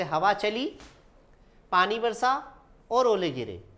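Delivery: हवा चली, a long pause, then पानी बरसा; pauses between clauses. Shown as a demonstration. Teacher gives a comma example, pausing between clauses. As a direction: break clearly after चली and after बरसा. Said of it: "अल्प विराम लगता है".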